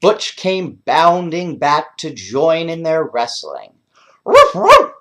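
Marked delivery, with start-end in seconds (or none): 4.2-4.9 high, loud playful barks; high loud dog barks; shouted woof. Acted. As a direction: bark it out joyfully. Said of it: "he shouted".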